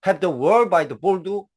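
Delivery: slow, drawn "have the world by the ball"; teacher reading the idiom slowly; very slow demo. Shown as a demonstration. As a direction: stretch the idiom out word by word. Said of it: "지금도 have".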